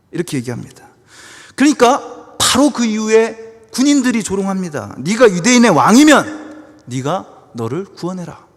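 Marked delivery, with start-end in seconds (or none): 1.6-8.5 loud, raised sermon delivery; forceful preaching. Acted. Preacher recounting the rulers' mockery, loud and emphatic. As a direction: drive it home to the congregation at full force.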